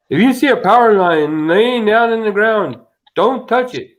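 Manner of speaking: high, loud mock cartoon safety warning; cartoon PSA voice. Retelling a G.I. Joe safety announcement to friends, mock cartoon PSA voice. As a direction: belt out a hammed-up public service warning.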